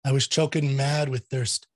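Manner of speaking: measured, rhythmic poetry reading with a light hint of accent; poem recitation. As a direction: recite the ballad with steady cadence. Reads a poem aloud.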